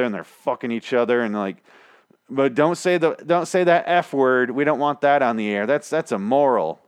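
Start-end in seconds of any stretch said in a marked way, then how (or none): 2.3-5.7 mock prim objection. Mocking the network's prim objection.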